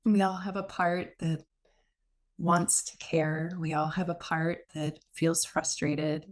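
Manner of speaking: unhurried meditation guide with long pauses; guided meditation. Real, not acted. Meditation teacher settling the group into noticing, guided meditation. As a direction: guide them inward, leaving space after each phrase.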